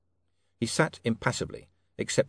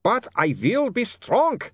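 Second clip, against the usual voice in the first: put-on slow, louder accented vow; mild scream; 12 semitones higher, 4 dB louder, slower than usual. Otto resisting the urge, a mild scream. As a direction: force out the vow, straining. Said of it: "he screamed".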